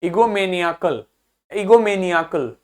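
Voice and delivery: ईगोमेनियाकल, निया clearly apart; repeated ईगोमेनियाकल stressing निया. Shown as a demonstration. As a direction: let निया stand out in ईगोमेनियाकल. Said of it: "आपको निया अलग से सुनाई दे".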